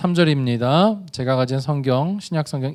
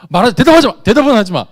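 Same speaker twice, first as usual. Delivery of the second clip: playful command; 7 semitones higher, 11 dB louder than usual. Real, not acted. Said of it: "머릿속으로 생각만 해요".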